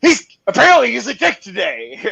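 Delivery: high, laughing and half-crying; laughing through it. Retold or imitated. Telling the family why the snake bit, laughing hard. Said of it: "I was like".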